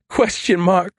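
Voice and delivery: high, incredulous squeal; helpless high-pitched disbelief; gasped. A narrator's reading. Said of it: "Adams gasped".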